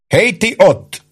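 high-pitched sergeant's holler; yelled challenge. A narrator's reading. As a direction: call sharply across to the soldiers. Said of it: "ordította Ike". (magas hangú, ráförmedő kiáltás)

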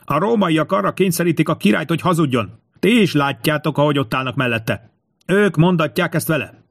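high, urgent pleading cry; high-pitched despairing protest; desperate shout. A narrator's reading. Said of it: "ordította a herceg kétségbe esetten".

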